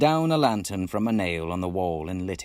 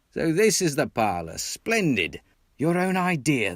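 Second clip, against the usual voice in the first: cheery praise; 6 semitones higher, 3 dB louder than usual. Acted. Rat praising the house.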